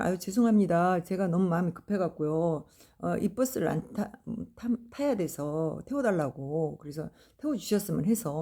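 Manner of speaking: halting, tripping over the words; retold flustered begging, breaking off mid-word; stammering apology. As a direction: stumble nervously through the apology. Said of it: "제가 더듬더듬".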